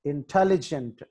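ఇంటెలిజెంట్ with the stress on "tel"; ఇంటెలిజెంట్, second syllable stressed. Shown as a demonstration. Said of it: "టీ దగ్గర stress mark".

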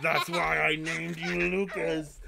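loud, slow, booming villain voice with a laugh; Darth Vader joke. Pretend. Father hamming up a movie line to son named Luke, loud and slow. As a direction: boom it out like a movie villain revealing himself. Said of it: "For the one joke I'm gonna make".

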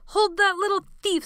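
loud, high hollered order. A narrator's reading. Sebastian yelling at the boys to grab the thief. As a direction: bark the order across the room. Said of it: "Sebastian hollered".

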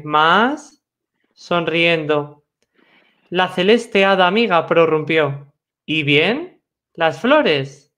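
measured verse reading with questioning lifts; poem recitation. Acted. Poet recalling the stars and dawn with the fairy, measured recitation. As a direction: recite line by line, pausing between images.

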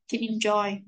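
"Can enjoy" run together as one word; consonant-to-vowel link in "Can enjoy"; linked sounds. Shown as a demonstration. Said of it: "những cái nối âm như sau".

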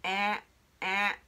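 え、え drawn out as one open æ sound, between ah and eh; vowel between a and e. Shown as a demonstration. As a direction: model え、え as the open æ vowel, jaw dropped. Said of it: "あとえの中間音".

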